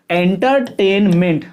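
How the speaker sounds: एंटरटेनमेंट slow, in three separate pieces en-ter, tain, ment; split into three syllables. Shown as a demonstration. Teacher counting syllables for students, word in three pieces. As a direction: chop एंटरटेनमेंट into three even chunks. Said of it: "इन तीन टुकड़ों में हुआ".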